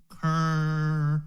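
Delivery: Currency spoken slowly and deliberately. Shown as a demonstration. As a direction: say Currency slow, leaning on the C. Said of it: "Say it slowly".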